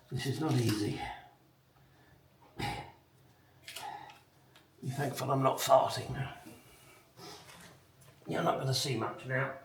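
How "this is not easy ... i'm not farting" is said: strained, grunting with effort. Real, not acted. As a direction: push the words out while straining. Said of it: "Excuse the grunting".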